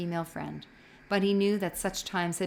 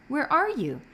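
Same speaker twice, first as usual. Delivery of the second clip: calling out; 8 semitones higher than usual. A narrator's reading. Boy calls for hidden friend.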